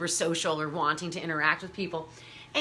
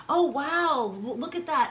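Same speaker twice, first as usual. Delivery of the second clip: mock gushing fan, higher and louder; gushing admirer; 5 semitones higher, 4 dB louder than usual. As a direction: imitate an excited stranger gushing. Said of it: "like, go".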